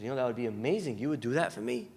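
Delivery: soft, low, touched reply; hushed, grateful disbelief; touched acceptance. Retold or imitated. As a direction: quietly take in a kind offer. Touched neighbor accepts offer in story.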